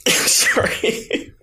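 choking on water; cough-laugh through swallowed water; swallowed wrong way. Real, not acted. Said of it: "I'm still choking on water".

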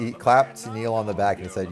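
ordinary delivery

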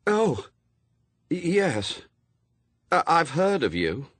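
stammering after crying; tearful. A narrator's reading. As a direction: speak through recent tears, faltering. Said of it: "dabbing at her eyes".

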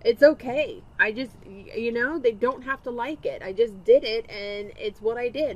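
아들 목소리 살짝 흉내; lightly voiced son. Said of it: "he turns to me and goes".

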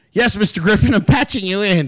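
lightly voiced assistant connecting a call; a hint of a deferential aide; imitated conference-call assistant. Plays the assistant putting call through.

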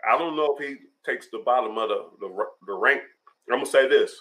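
talking around ice in mouth. Real, not acted. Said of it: "I don't know why I put ice in my mouth".

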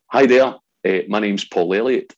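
eager greeting. Retold or imitated. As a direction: greet the guard brightly, a bit too loud. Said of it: "I said".

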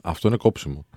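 amused, laughing through the words; real laughter in the voice. Real, not acted. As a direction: say it while cracking up at a co-host. Laughing at co-host's interrupting joke.

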